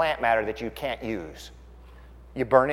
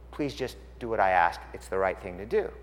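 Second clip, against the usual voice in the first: gentle request; 7 semitones lower, 6 dB quieter than usual. Acted. Voicing Jesus gently answering John's protest.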